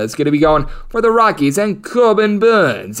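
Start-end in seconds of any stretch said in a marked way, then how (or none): 1.8-3.0 drawn-out, higher English accent on the name. Shown as a demonstration. Betting analyst jokingly says pitcher's name in English accent. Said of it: "as I use my old English accent".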